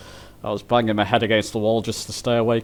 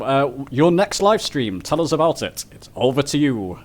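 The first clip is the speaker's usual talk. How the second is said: a little extra lift and enthusiasm; more enthusiastic; 3 semitones higher than usual. Shown as a demonstration. Host hands Mark his next live stream plug, with added enthusiasm. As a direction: hand over like a keen host. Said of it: "say it with a little bit more enthusiasm".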